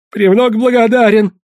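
bow and scrape in words; a lightly voiced groveling merchant; obsequious thanks.

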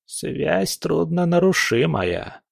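put-on slow, ominous old fortune teller; a lightly voiced old witch; old crone voice.

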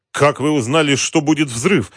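high, loud astonishment; stunned question. A narrator's reading. Shaken companion asks how he knew of the blast, stunned. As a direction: ask it in shocked disbelief. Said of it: "ошеломлённо спросил он".

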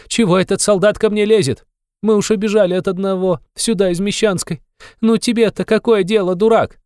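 high, loud, indignant outburst at the policeman; frantic scolding. A narrator's reading. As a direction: snap at him high and loud. Frantic widow berates policeman. (высокая гневная отповедь)

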